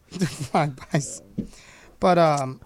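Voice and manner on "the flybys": slow, amused repeat; drawn out. Pretend. Mocking the old term, stretched out slow.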